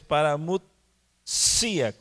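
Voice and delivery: paramutsia with a strong SI after a break; paramutsia, split before a stressed final SI-a. Shown as a demonstration. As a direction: punch the I in paramutsia. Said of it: "acento en la I".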